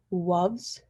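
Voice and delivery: "woves" with W in place of L; gliding woves. Shown as a demonstration. Student demoing gliding, "woves" with W. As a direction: start "woves" with rounded W. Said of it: "Instead of loves, saying woves".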